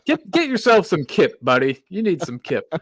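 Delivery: Midwestern accent. Shown as a demonstration. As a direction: play up the Midwestern accent on British slang. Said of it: "with my hilarious Midwestern accent".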